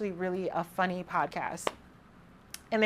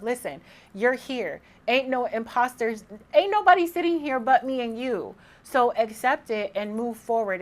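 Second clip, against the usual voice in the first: emphatic self pep talk, building higher and louder; tough love; 3 semitones higher, 4 dB louder than usual. Acted. Giving herself tough love over imposter syndrome, emphatic. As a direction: firmly talk yourself out of doubt. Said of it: "gotta give myself tough love".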